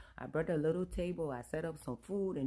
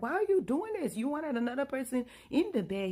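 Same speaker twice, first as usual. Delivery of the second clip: much higher and louder, exasperated; shrill protest; 8 semitones higher, 6 dB louder than usual. Retold or imitated. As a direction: defend yourself in disbelief. Wife pleads with angry husband.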